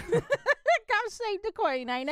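slow, laughing put-on British; mock British accent, laughing. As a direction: giggle through a Cockney toast. Echoing mock British line.

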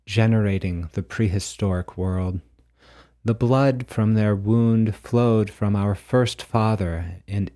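measured, solemn storytelling; prose poem narration. A narrator's reading. Author reading his mythic prose poem to listeners, measured recital. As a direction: read it out like a creation myth, firmly and deliberately. Reads creation myth from poem.

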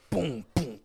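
spoken drum-like "boom"; mouthed booms of the song; imitated musical booms. Podcaster imitating the music after the scream, mouthed booms. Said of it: "And then it goes".

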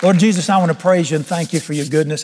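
fervent closing prayer; preacher's prayer. Real, not acted. Preacher commissioning his congregation to shine, fervent prayer. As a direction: pray aloud over the congregation with conviction.

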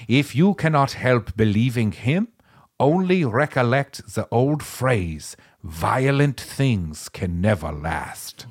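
slow, heavy German accent. Shown as a demonstration. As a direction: read it in a mock German accent. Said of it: "I need to do a Ger-, German accent".

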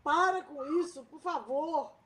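sudden loud high cry to stop the fight; shouting stop. Acted. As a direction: yell at them to stop. Woman intervenes in the fight.

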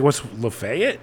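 LAFAYETTE said "luh-FAY-it", rising; local pronunciation questioned. Retold or imitated. Newcomer puzzled by a local name, Lafayette as "luh-FAY-it". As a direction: query Lafayette with stress on FAY. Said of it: "Somebody said Lafayette to me".

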